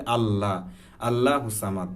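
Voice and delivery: light "Allaa" and thin "saamad" in আল্লাহু সামাদ; common wrong reading. Shown as a demonstration. Teacher quoting what many say, light আল্লাহু সামাদ. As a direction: open "a" in আল্লাহু, plain s in সামাদ. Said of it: "আমরা অনেকেই বলি".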